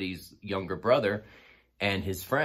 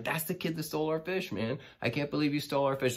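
higher, fast, playfully outraged; teasing call-out; 8 semitones higher than usual. Retold or imitated. To the kid at the party, fast playful mock outrage. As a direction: rub it in, half-joking. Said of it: "just kind of laughing".

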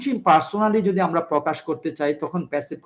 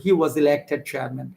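slow dictation; much slower than usual. Shown as a demonstration. Teacher dictates example sentence.

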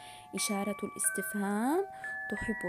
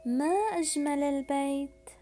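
exclamatory reading; 3 semitones higher, 4 dB louder than usual. Shown as a demonstration. Teacher reads example sentence.

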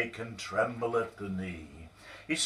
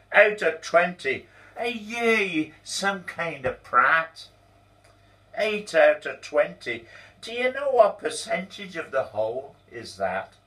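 angry boss; 10 semitones higher, 8 dB louder than usual. Acted. Boss grilling Donald about his lates, loud and angry. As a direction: hammer the numbers at him.

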